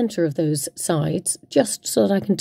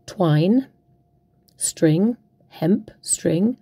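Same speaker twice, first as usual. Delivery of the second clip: whispered aside; much slower than usual. Acted. Crafter naming her twine, in a whisper. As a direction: breathe the words out as a quick aside.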